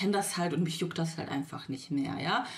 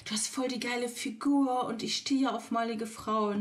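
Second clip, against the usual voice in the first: imitating the man; 3 semitones higher than usual. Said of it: "Und dann der so".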